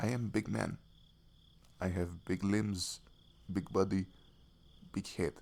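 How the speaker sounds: put-on Russian accent. Telling someone his tent is too small for him, in a Russian accent. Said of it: "I don't know why I went to Russian accent".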